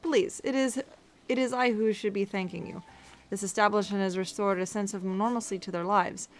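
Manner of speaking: put-on gracious, formal ruler with rough Russian accent; formal speech in an unsure Russian-like accent; attempted Russian accent. Ruler thanking a boutique owner, amateur Russian accent. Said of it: "doing, like, a Russian accent".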